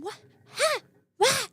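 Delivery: high, sharp disbelieving what; stunned outrage. Retold or imitated. Recalling the teacher's double standard, high outraged disbelief. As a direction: sputter in angry confusion. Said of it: "I was so angry".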